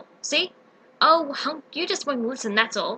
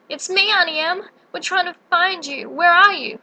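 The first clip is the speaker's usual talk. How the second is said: higher, searching call; 4 semitones higher than usual. Acted. Aunt searching for Dorothy, anxious call. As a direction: call out to find her. Auntie Em calling out.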